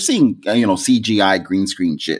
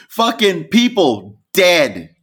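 laughing; 8 semitones higher, slower than usual. Real, not acted. Laughing retelling of the deaths.

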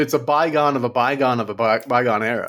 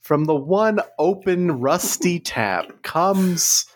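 slow, drawn-out ad read; mock-grand, unhurried announcer; mock commercial voiceover; slower than usual. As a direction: savour each phrase like a grand water advert. Improvised fake bottled water commercial.

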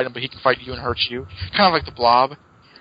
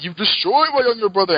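creature voice; 6 semitones higher than usual. Retold or imitated. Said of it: "The creature says that".

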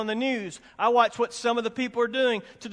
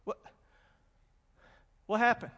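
stunned what what; 9 dB quieter than usual. Retold or imitated. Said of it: "they would be like".

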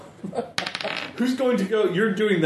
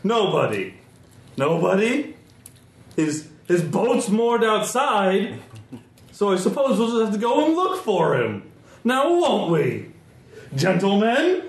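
put-on drunk nobleman; 3 semitones higher than usual. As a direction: sneer it out like a tipsy lord.

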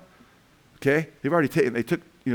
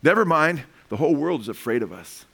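put-on old woman; 3 semitones higher than usual. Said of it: "answer was actually given by an old woman".

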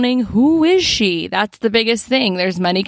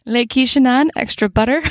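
mock French; 3 semitones higher than usual. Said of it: "the French series".

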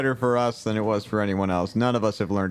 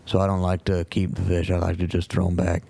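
put-on Cajun accent; 3 semitones lower than usual. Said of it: "Mister Cajun Man".

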